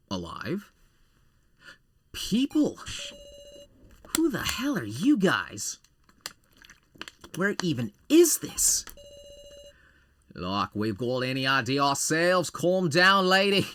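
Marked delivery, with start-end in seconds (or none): 2.1-8.8 panicked woman. Acted. Panicked woman character shouting. 12.5-13.7 higher, louder telling her off; snappy retort. Acted. Another character snapping back.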